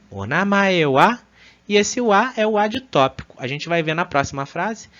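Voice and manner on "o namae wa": slow "O namae wa?" rising on wa; uptalk. Shown as a demonstration. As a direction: ask "O namae wa?" slowly, rising at the end. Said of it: "a gente falaria". (pergunta lenta subindo no "wa")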